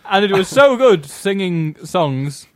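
loud, drawn-out diva, laugh underneath; a famous singer. Acted. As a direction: play the singer slowly, half laughing. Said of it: "And it's me, Shirley Bassey".

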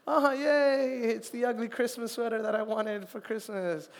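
hammed-up ironic joy; sarcastic delight. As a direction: fake a happy gasp over an ugly sweater. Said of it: "a gift that you're like".

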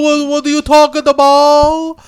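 singsong, exaggerated Hispanic accent; bad Hispanic accent. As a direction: draw it out in a hammy Hispanic accent. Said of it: "the worst Hispanic accent".

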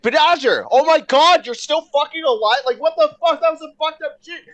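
high, loud, incredulous exclamation; shocked outburst. Retold or imitated. School friends react to seeing him alive, shocked. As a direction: act out stunned disbelief, voice way up.

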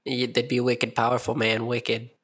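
put-on a light, lazy Boston accent on wicked; half-hearted New Englander twang. Joking about lightsaber force pushes in a mild Boston accent. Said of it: "That's my New Englander accent".

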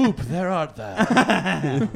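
slow, laughing faux-old-English catchphrase; mock archaic whoop. Riffing on the catchphrase with a laugh, mock courtly. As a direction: drag it out through laughter.

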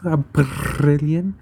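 "brilliant" slowly with a long trilled R; rolled R. Shown as a demonstration. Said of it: "Do you like how I roll my R's".

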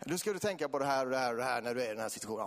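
rapid-fire retold instructions; rabblade råd. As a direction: rattle off the advice as the helper did. Retold doctor reels off advice. (snabbt uppräknade råd, återberättat)

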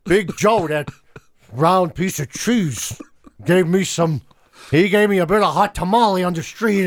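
lightly hammed-up American gangster; movie gangster. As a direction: audition badly as an American movie mobster. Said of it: "an audition for a gangster in a movie".

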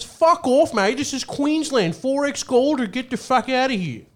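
high, loud Australian yell; mock furious Australian barman; angry Australian accent. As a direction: bark it like an angry Aussie bartender. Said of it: "His response was".

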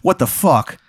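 doctor voice. Acted. Doctor seeing the injured player, shocked. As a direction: play a stunned dude doctor. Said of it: "the doctor's like".

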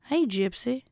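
off-target mother voice, slipping into a toy bear; mother impression. First try at the mother from The Act, lightly voiced impression. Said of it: "the mother talks like this".

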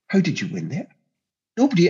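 Sean Connery impression. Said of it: "I did a passable Sean Connery doing bumper, doing Ivan Rakitic".

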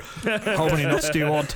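slow, lightly put-on film-star voice; Liam Neeson impression. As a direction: lightly imitate him, drawing out the question. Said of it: "Liam Neeson's just like".

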